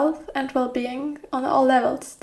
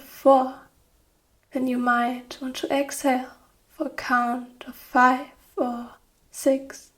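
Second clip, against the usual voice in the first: guided meditation. Acted. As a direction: guide them gently into rest, phrase by phrase. Leads guided relaxation.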